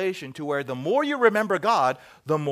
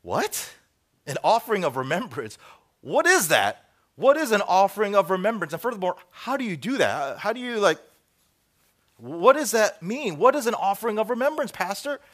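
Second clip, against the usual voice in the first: higher, louder mock-incredulous questioning; baffled listener; 5 semitones higher, 6 dB louder than usual. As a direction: act out a baffled churchgoer quizzing the pastor. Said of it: "And you're thinking".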